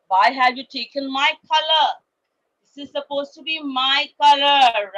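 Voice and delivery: loud angry tiger shout. Acted. Tiger cousin scolds the cat, loud angry shout. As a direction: roar it at the little cat. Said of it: "he shouted at Scat".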